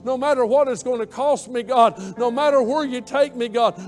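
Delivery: impassioned prayer. Acted. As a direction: pour yourself out to God at the altar.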